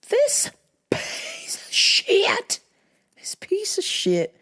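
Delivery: breathy whispered insult, slow; hissed whisper. Real, not acted. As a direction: spit it out under your breath. Venting about rude customer.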